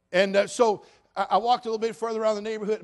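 usual speaking voice

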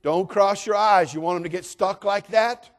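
mock scolding mother; scolding mom. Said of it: "Great truths mothers teach us".

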